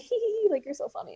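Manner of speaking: high-pitched mock tee-hee, softening at the end; imitated giggling. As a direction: mimic a tittering woman in a high voice. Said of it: "the woman kept laughing".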